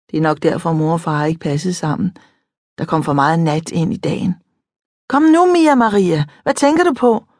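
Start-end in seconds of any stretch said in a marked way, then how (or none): 5.1-7.3 lightly voiced friend. A narrator's reading. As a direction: coax a daydreaming friend gently. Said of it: "siger Mariam".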